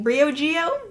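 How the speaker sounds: Briogeo as BREE-oh-jee-oh, rising like a question; unsure pronunciation. Shown as a demonstration. Vlogger unsure of a brand name, asking BREE-oh-jee-oh for Briogeo. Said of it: "I don't know".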